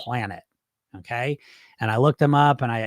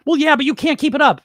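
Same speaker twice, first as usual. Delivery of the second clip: high, louder know-it-all objection; negative inner voice; 10 semitones higher, 6 dB louder than usual. Retold or imitated. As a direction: argue back as the doubting voice. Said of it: "negative voice in your head".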